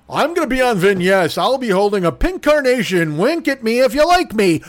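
mock dainty whine; mocking whiny voice. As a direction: camp it up as a lost wallflower. Mocking friend's text.

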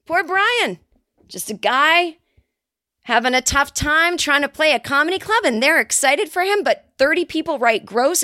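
a touch of insincere sympathy; mock sympathy. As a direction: play devil's advocate with put-on concern. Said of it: "I'm not really thinking that".

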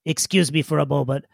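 lightly voiced formal little creature; polite digger. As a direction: excuse yourself with awkward courtesy. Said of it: "He says".

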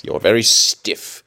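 very stiff said slow and pointed; slow emphatic. Shown as a demonstration. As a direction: lean on very, slowly.

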